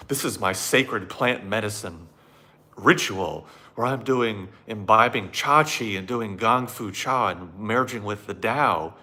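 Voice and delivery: mock outrage. Mocking himself insulted by the plumber, hammed-up outrage. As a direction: play the insulted tea snob, dragging it out. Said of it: "I would say".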